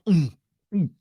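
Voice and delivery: a couple of throaty gulps; imitated gulping. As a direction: imitate two noisy swallows. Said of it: "did you guys hear the gulp?".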